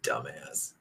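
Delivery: Dumbass dropped very low and soft; deep mock voice. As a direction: growl Dumbass in a low goofy voice. Repeats insult in new voice.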